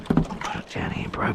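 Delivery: whispered under the breath; breathy whisper to a mate. Real, not acted. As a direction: whisper it to yourself first. Repeats instruction, first whispered.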